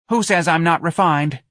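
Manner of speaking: high, indignant challenge; indignant dancer's question; angry retort. A narrator's reading. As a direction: snap back, affronted and high-pitched. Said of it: "Darlene asked angrily".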